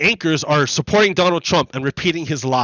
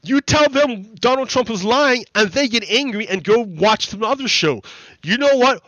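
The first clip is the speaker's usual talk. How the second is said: high, alarmed mock producer voice; a hammed-up, high-pitched producer in a panic; panicked producer; 5 semitones higher than usual. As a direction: imitate a freaked-out producer. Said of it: "the producers are like".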